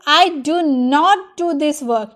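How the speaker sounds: slow, deliberate dictation; careful slow English; slow model sentence. Shown as a demonstration. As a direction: lay out each word for learners. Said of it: "अगर मैं बोलूँ".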